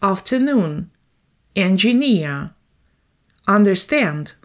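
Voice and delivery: afternoon, engineer, understand each stressed on the final syllable; teacher modelling final-syllable stress; stress on third syllable. Shown as a demonstration. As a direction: land the weight on the last syllable of each word. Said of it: "The third syllable is under the stress".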